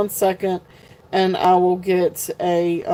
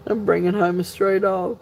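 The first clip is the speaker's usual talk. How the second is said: laugh-crying. Real, not acted. Laughing tearfully at the prank.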